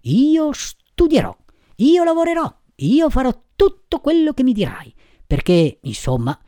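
high, fervent vows from the puppet; lively resolve. A narrator's reading. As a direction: declare each promise in a high, impassioned voice. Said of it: "rialzando vivacemente la testa". (promesse solenni con voce acuta e infervorata)

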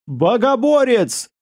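high, slow terrified cry; shout. Acted. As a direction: cry out in terror. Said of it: "слышался крик".

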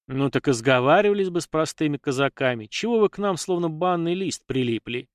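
ordinary delivery, nothing marked

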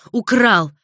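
громкий высокий отчаянный крик; выкрикнуть в полном отчаянии; отчаянный выкрик. A narrator's reading. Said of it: "отчаянно выкрикнул ... высоким голосом". (высокий отчаянный крик)

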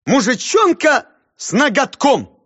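high, loud, slow full title; grand declaiming. Acted. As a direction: proclaim the whole title. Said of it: "И повторил всё вместе".

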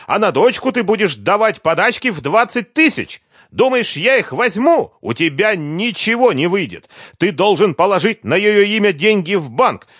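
high, loud enraged rant at her ex; furious tirade. A narrator's reading. Liza rages at ex-husband.

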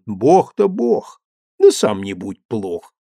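ordinary delivery

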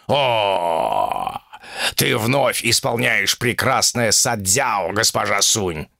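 lightly voiced old tiger; wise tiger voice. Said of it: "страдальчески".

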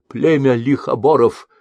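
merchant's insult. A narrator's reading.

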